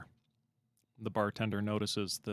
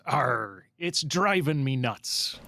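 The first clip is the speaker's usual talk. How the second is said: slow drawn-out pirate growl; much slower than usual. Retold or imitated. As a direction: drag out the punchline like a pirate. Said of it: "And the pirate says".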